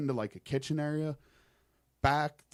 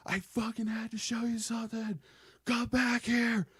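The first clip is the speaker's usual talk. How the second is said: put-on screaming kid; 10 semitones higher than usual. Creepy kid screaming after him as he walks away, high and strained. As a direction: shriek at him to come back. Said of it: "he starts fucking screaming at me".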